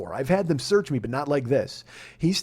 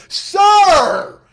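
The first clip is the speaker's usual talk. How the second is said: much higher, loud startled yelp; shocked shout; 10 dB louder than usual. Retold or imitated. Agent shocked by a faceful of ass, loud high yelp. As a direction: blurt it out in shock. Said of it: "he just goes".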